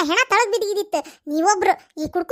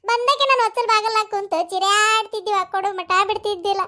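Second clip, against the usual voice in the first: mock lament. Mock funeral lament by neighbour.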